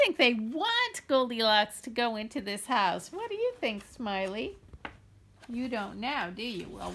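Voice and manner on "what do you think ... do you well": soft aside. Real, not acted. Aside to toy Smiley.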